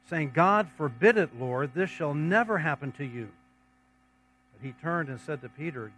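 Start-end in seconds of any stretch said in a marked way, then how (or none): 0.3-3.3 mild rebuke, leaning on "God forbid it"; rebuking. A narrator's reading. Peter takes Jesus aside to rebuke him, rebuking. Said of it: "began to rebuke him".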